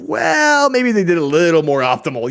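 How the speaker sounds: high, sing-song teasing quote; funny Ludwig voice. Retold or imitated. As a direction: do it in a silly high voice. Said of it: "said in a very funny way".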